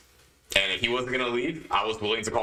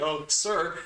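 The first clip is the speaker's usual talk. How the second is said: meek hesitant pushover voice, slightly higher; timid, punkish; 5 semitones higher than usual. Retold or imitated. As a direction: sound weak and apologetic. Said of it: "I didn't say it like a punkish way".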